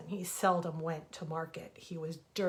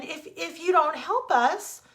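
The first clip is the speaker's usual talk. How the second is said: high, much louder, rushed begging; frantic plea; 9 semitones higher, 10 dB louder than usual. Acted. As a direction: tumble the words out in panic. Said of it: "cried the rabbit again".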